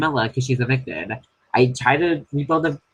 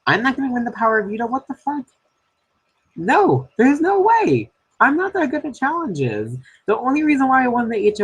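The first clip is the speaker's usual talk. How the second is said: exasperated outburst; 12 semitones higher than usual. Real, not acted. Houseguest panics in the diary room that she's going home, frantic and high. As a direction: pitch shoots way up in frantic disbelief. Despairing about being evicted.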